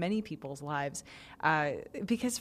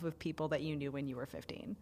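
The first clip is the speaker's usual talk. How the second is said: whispering; 4 semitones lower, 8 dB quieter than usual. Real, not acted. Cringing aside about teen friends.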